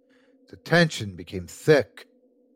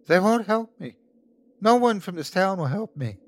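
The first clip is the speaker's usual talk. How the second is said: high-pitched, pleading cry; desperate plea; 9 semitones higher than usual. A narrator's reading. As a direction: beg as if nobody will listen. Sickly man begging Kent for help.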